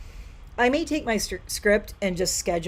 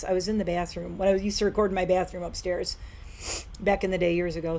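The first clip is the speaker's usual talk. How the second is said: sniffling. Real, not acted. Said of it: "Sorry, I'm so sniffly".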